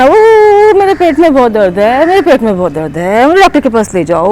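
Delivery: hammed-up whimper of a sore-bellied panda; mock crying. Panda cries to the children about his tummy, mock crying. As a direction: whine the complaint, a touch of fake sobs. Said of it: "ये रो रहे हैं".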